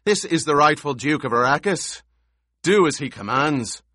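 high, forceful command to unruly men; barked order. A narrator's reading. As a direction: keep barking, insisting on obedience. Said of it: "he barked".

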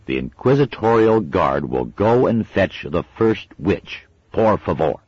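a boy playing inquisitor; mock-official boy. A narrator's reading. Adam giving orders.

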